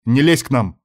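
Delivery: sudden angry outburst; losing temper. Acted. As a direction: snap back hotly. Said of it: "мгновенно вышел из себя Марат".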